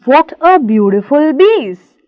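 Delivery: put-on lightly accented German shoemaker's remark; quoted with a slight German accent. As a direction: say it slowly with a touch of German accent. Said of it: "This is again German accent".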